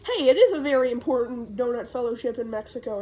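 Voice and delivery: mock-sincere, with a pitch jump up front; sarcastic retort. Lily retelling the very important donut fellowship, mildly sarcastic. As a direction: imitate someone who can't help sounding sarcastic. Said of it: "no way to say that without sounding sarcastic".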